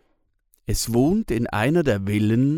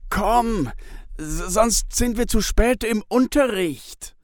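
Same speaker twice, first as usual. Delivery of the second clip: put-on high, eager kid voice tugging a friend along; urgent little boy, higher; boy Pitt; 12 semitones higher than usual. A narrator's reading. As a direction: play an impatient young boy, pitched well up. Boy Pitt pulls at sleeve.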